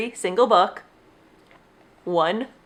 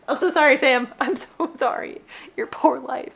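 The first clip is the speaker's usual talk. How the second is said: mock apology; 4 semitones higher than usual. Real, not acted. Apologizing to dropped books.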